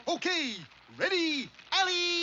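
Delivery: high, loud drawn-out launch call; called-out countdown. Acted. Moose about to fling Rocky into flames, loud count-off. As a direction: call each word out, building to the last.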